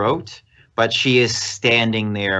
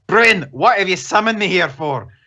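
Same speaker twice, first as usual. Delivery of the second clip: put-on Scottish accent, pitched up; 8 semitones higher, 4 dB louder than usual. Playing a summoned character in an accents game, asking why he was summoned, Scottish accent. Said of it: "How do you do a Scottish accent?".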